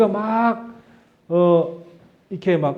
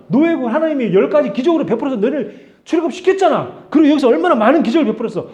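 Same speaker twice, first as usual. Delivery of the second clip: hammed-up furious Moses ranting at the crowd; exasperated scolding; 6 semitones higher, 5 dB louder than usual. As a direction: tell them off like you've had enough. Pretend Moses scolding the people.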